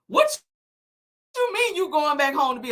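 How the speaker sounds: high squeaky laughing what; laughing disbelief. Real, not acted. Laughing in disbelief at Tisha's plan to quit.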